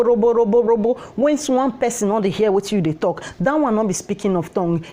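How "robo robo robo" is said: mock gibberish. Shown as a demonstration. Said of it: "No be say you come dey speak robo".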